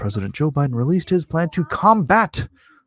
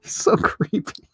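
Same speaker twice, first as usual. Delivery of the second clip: whisper; 5 semitones higher, slower than usual. Real, not acted. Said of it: "whispered comment".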